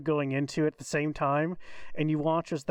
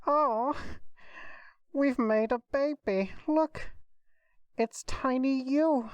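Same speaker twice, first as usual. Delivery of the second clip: excited; 8 semitones higher than usual. Real, not acted. Player delighted at tiny summoned creature.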